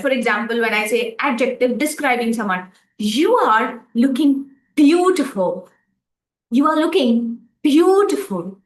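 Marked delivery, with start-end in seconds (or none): 3.0-5.7 "beautiful" stressed, said slowly; slow line with "beautiful" stressed. Shown as a demonstration. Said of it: "when I say beautiful, I am stressing that". 6.5-8.6 "beautiful" given the main stress. Shown as a demonstration. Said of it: "when I say beautiful, I am stressing that".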